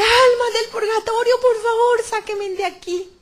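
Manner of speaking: high, loud plea for rescue; desperate cry. Retold or imitated. Woman begs souls in purgatory to get her out, high pleading cry. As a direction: call out high, stretching the final words. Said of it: "empecé a gritar".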